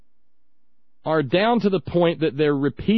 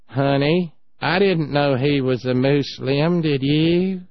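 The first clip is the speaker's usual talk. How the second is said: slow, drawn-out small-town husband; folksy husband; slower than usual. Retold or imitated. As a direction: ask your wife in a slow homespun voice. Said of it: "Emory looks at Eileen and says".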